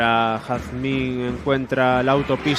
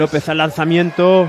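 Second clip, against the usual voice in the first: breakneck goal commentary; 3 semitones higher, 7 dB louder than usual. Real, not acted. Shot at goal, live call.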